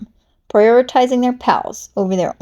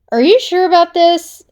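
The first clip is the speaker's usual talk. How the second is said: high, louder worried squeak; nervous Snake voice; 8 semitones higher, 6 dB louder than usual. Acted. Snake doubts Piranha's plan, high and worried. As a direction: Snake fretting in a high put-on voice. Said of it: "Snake asked".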